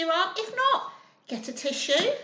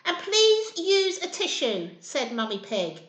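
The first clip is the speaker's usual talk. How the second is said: mildly cross mother; 4 dB louder, slower than usual. Acted. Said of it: "she was angry with him".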